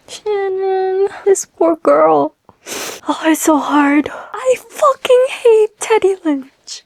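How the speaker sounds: high, crying voice; real tearful upset, drawn out. Real, not acted. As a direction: cry through the words, pitch climbing. Crying over the book's ending.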